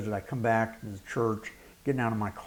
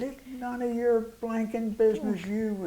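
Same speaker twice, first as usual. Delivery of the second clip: higher, hostile retort; hostile snarl; 10 semitones higher than usual. Retold or imitated. The angry young man snapping back at the pastor, hostile. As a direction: throw it back at him with contempt. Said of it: "he said".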